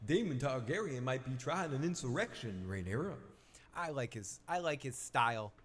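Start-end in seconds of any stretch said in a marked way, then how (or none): 0.1-3.2 Davos voice. Retold or imitated. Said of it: "maybe I just wanna do this voice".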